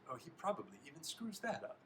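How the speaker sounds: high, sneering aside; worked-up taunt. Shown as a demonstration. Reader tries the line as an upset teammate, jeering. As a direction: jeer it without raising the volume. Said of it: "in a state like that".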